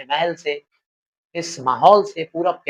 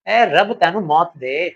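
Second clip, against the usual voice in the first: angry curse; 3 dB louder, much slower than usual. Acted. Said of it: "चीख कर बोला".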